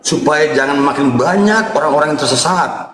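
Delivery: solemn low pastor preaching; preacher voice. Acted. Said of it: "saya Pendeta John Timothy".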